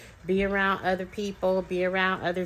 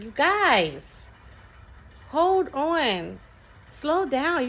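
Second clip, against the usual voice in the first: high-pitched imitation of a kid interrupting; protesting child; 9 semitones higher, 4 dB louder, much slower than usual. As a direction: plead with the grown-ups in a child's voice. Retelling child interrupting fast-talking adults.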